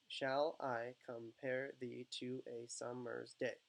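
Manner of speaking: "shall I compare thee to a summer's day" slowly, syllable by syllable; measured, separate beats through "shall I compare thee to a summer's day"; counting syllables. Shown as a demonstration. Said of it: "Ten syllables".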